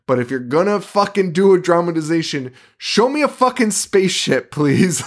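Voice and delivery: high pleading rant; exasperated demand. Real, not acted. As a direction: demand the spaceship like a fed-up fan. Ranting about the show's choices.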